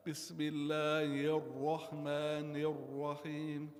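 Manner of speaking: mispronounced tajweed chanting; deliberate mistake. Shown as a demonstration. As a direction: chant الرحمن with a rounded vowel on the ra. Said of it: "I'm making a dhamma".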